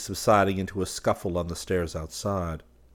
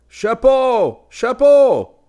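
much higher, loud angry yell; furious cry; 15 dB louder, much slower than usual. A narrator's reading. Student furious at the hat worn in the studio, yelling. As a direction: bellow it furiously. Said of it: "a furious cry of".

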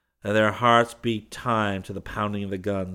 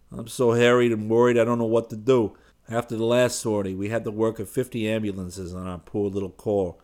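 louder, harried doctor pouring it out; worried doctor; 2 semitones higher, 5 dB louder than usual. Acted. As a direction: rush it like a man with no time.

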